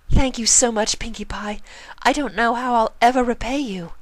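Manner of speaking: a friend near tears of relief; grateful Rarity. A narrator's reading. Rarity thanks Pinkie.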